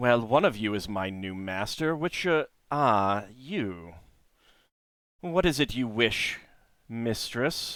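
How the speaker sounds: put-on contemptuous, scornful giantess voice. Voicing a twelve-foot woman staring down at the listeners' characters; disdainful giantess voice. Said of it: "stares down at all of you with disdain".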